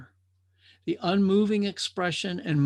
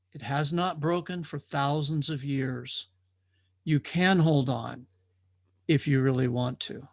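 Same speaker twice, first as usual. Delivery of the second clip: calm reassurance; 3 semitones lower than usual. Acted. Watcher reassures the drifters.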